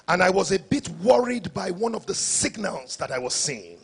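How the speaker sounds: a hint of a captain's announcement; airline captain explaining. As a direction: explain it to the passengers in a measured captain's voice. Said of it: "this is your captain speaking".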